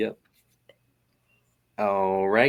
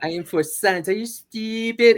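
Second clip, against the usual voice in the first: a scornful little genius mocking someone; Dexter voice; 12 semitones higher, 6 dB louder than usual. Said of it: "That's definitely Dexter".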